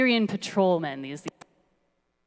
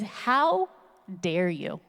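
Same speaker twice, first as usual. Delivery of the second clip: mock yelling; much slower than usual. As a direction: draw out a mock-outraged "how dare you". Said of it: "she's yelling at all these".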